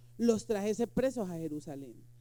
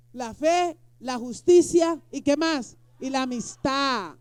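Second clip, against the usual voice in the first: preaching shout; 9 dB louder, slower than usual. Real, not acted. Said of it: "predicador enfatiza a gritos".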